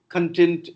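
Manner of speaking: "Content" as con-TENT, stressed on the second syllable; learner's error, "Content" stressed at the end; wrongly placed stress. Shown as a demonstration. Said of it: "No, it's not content".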